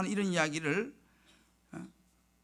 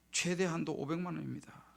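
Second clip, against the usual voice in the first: softly quoted bank clerk; matter-of-fact clerk giving the verdict, rather softly; bank clerk's reply; 2 semitones lower, 6 dB quieter than usual. Retold or imitated. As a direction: quote the clerk quietly and evenly. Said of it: "아, 그러더라고".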